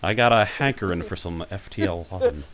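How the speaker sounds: a hint of a nerdy Texan cartoon dad; Hank Hill. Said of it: "You're like a nerdy Hank Hill".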